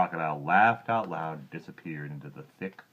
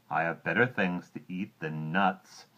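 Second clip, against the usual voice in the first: sniffy; 3 dB louder than usual. Acted. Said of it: "sniffed the crocodile".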